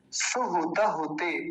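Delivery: सुहुत होते with each u kept short, "suhuta-hute"; careful recitation with short u syllables; short u vowels. Shown as a demonstration. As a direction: keep the u sounds brief in सुहुत होते. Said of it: "छोटे ऊ की मात्राएं हैं तीनों".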